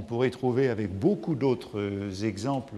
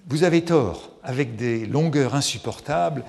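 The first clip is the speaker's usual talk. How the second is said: a hint of a haughty salon lady, louder; Madame de Guermantes; 2 semitones higher, 6 dB louder than usual. Madame de Guermantes mocking Wagner, a hint of haughty disdain. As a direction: lightly voice her disdain for Wagner. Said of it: "elle dit elle-même".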